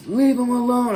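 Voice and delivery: high loud mock yell from the crowd; bystanders screaming. Onlookers at the light yell at him, loud and high. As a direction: shout it like an onlooker. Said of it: "I hear people screaming".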